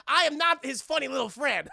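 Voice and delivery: high, loud shouted protest; hammed-up offense at being belittled; indignant retort. Carter to the triad boss, indignant shout.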